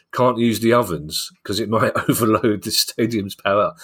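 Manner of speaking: laughing. Real, not acted. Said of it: "I'm gonna struggle to say it without laughing".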